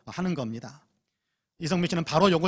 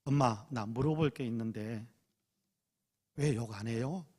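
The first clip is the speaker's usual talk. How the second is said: timid son asking; 5 semitones lower, 8 dB quieter than usual. Retold or imitated. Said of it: "묻더랍니다".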